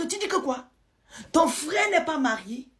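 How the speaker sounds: voix haut perchée, reprise incrédule. Retold or imitated. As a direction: rejouer une question stupéfaite, très aiguë. Reprend le gars, incrédule. (incrédule, ton qui monte dans les aigus)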